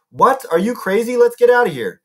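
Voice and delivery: alarmed, urgent objection; incredulous protest. A narrator's reading. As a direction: balk at a crazy idea. Percy balks at beheading Medusa.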